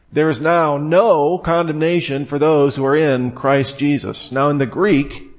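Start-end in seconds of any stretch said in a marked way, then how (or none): 0.1-4.3 no condemnation, with the word "no" pressed and lifted; the word "no" set apart with a rising push; stress on no. Shown as a demonstration. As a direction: lean into "no" to show Greek emphasis. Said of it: "the word no starts the sentence".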